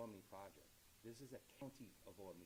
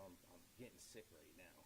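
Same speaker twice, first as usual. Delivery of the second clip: a softer, sunk, queasy murmur; low and unhappy; 5 semitones lower, 8 dB quieter than usual. Retold or imitated. County executive telling Kevin on the phone, quietly glum. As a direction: let it drop quietly, mildly sick. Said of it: "You don't sound happy".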